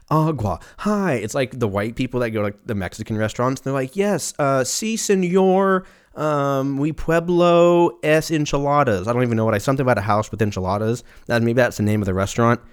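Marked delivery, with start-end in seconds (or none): 3.9-9.1 put-on slow, high, clumsy American Spanish accent; mock gringo Spanish. White tourist ordering at Mexican restaurant, mock gringo Spanish. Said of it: "they just sound ridiculous when they say it".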